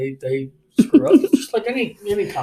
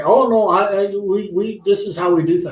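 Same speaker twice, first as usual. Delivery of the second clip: mock protesting caller, higher and louder; raised, stammering retort; 5 semitones higher, 5 dB louder than usual. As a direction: imitate a flustered caller insisting. Scammer's protest acted out.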